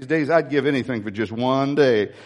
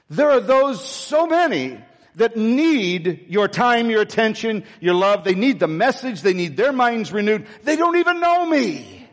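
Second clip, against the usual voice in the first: rising, urgent, higher pleading voice; voice of God; 5 semitones higher than usual. Retold or imitated. God urging the pastor, higher and urgent. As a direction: press him, building urgency. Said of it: "I said".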